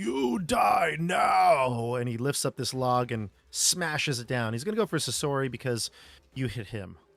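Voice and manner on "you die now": broken, basic, high, rough giant's scream, stretched. As the giant lifts a massive log to attack you, screaming in broken Common. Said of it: "scream at you in the most like broken, basic common".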